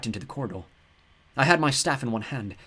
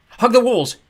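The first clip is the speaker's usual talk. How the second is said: loud high shriek; 12 semitones higher, 13 dB louder, slower than usual. A narrator's reading. Girl warns Walt of the swarm, shrieking. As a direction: scream a warning. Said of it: "I shrieked".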